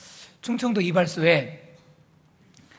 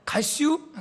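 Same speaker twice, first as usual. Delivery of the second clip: short Chungcheong dialect question, pitched up; 8 semitones higher, slower than usual. Shown as a demonstration. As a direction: clip it to two syllables, country style. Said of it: "간단합니다".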